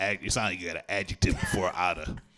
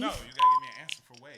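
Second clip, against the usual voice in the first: fast; much faster than usual. Real, not acted. Fast excited correction.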